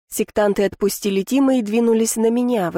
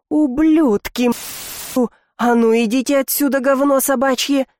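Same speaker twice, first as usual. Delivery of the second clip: full-voice bark; 4 semitones higher than usual. Acted. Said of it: "гаркнула я во весь голос". (гаркнуть во весь голос)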